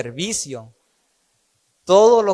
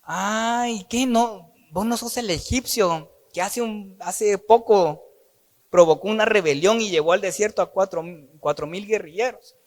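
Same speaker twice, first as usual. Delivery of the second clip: surprised commander; 4 semitones higher than usual. Acted. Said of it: "y le dice".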